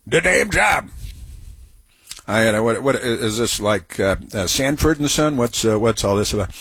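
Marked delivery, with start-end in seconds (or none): 0.1-0.9 a mild mock imitation of the guest's raised voice, lifted high. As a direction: lightly parrot the guest's emphatic phrase, teasing. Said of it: "I'm gonna start talking like that".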